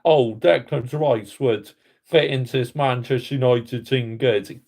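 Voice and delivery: lightly voiced sneering quote of the manager; mocking the manager. Fan mocks the manager's press conference, in a mild sneering mimic. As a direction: parrot his press-conference line with contempt. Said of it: "saying that".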